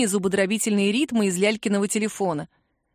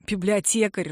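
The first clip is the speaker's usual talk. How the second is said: plain reading voice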